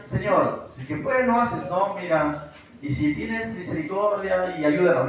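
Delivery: understated, unemotional plea; casual request. Shown as a demonstration. Pastor shows congregation how a father wouldn't beg, casual. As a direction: ask for help as if nothing were urgent. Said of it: "¿Lo dirías así?".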